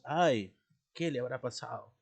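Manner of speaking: demonstrated worried exclamation, understated; mild anguish. Shown as a demonstration. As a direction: wonder anxiously, with a touch of anguish. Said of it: "Entonces expresamos una angustia". (angustia leve)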